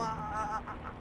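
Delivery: straining, stuttered attempts at a cry, softly imitated; stifled scream attempt. Paralysed man trying to cry out in a dream, mock stifled scream. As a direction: mimic trying to scream without getting it out. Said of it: "yo era como a gritar".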